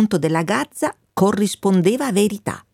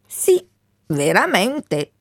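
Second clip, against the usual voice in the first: embarrassed; slower than usual. Acted. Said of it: "disse la Gazza imbarazzata".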